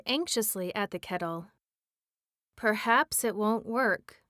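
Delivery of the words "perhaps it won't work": weak discouraged mutter. Acted. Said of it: "he muttered, in a voice that sounded weak and discouraged".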